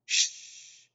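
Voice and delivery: voiceless drawn-out shush; hushing. A narrator's reading. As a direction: hush someone gently. Princess hushes Mig.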